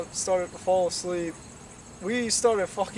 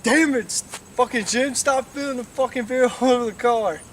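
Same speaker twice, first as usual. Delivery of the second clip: raised, exasperated mock yell; imitated angry scolding; 3 semitones higher, 4 dB louder than usual. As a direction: scold your passenger, half amused. Quotes driver scolding beer spiller.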